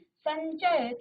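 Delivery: संचय said slowly, the nasal before च held; slow demonstration. Shown as a demonstration. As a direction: draw out संचय to show the nasal. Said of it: "यो का उच्चारण आया".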